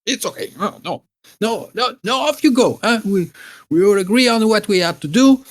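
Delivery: put-on old hag sending the girls off, demanding her pies. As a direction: brush them off like a bossy old hag. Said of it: "becomes this old hag again".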